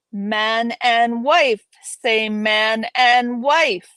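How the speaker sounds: loud, slow, hammed-up insistence; mock-impatient demand. Impatient figure hurries a wedding along, in a loud mock demand. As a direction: play at demanding it, each word stretched and punched.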